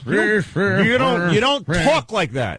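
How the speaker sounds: put-on high, slow, drawn-out girly pop tone; hammed-up pop girl voice; mock pop singer voice. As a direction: imitate a singer sliding the vowels. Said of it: "the girls sing like this".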